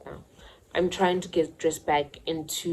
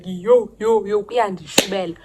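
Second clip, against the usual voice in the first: panicked rush; 4 semitones higher, 8 dB louder than usual. Retold or imitated. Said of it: "I'm like".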